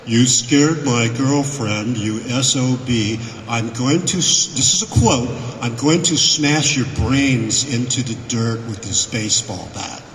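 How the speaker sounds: slow, deliberate retold threat, lightly voiced; a hint of a menacing boyfriend; threatening big guy. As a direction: spell out the threat word by word. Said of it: "here's what he says".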